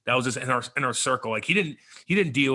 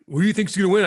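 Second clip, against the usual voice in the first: high radio question; 8 semitones higher, 5 dB louder, faster than usual. Retold or imitated. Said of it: "everybody always asks me on the radio".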